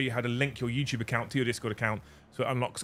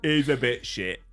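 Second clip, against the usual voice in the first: laughing; 4 semitones higher, slower than usual. Real, not acted. Laughing at poor advertising.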